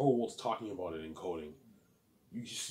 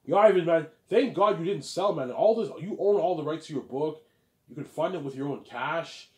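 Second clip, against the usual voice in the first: louder, higher hyped-up congratulations; hyped friend; 5 semitones higher, 6 dB louder than usual. Retold or imitated. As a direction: cheer him on like a buddy.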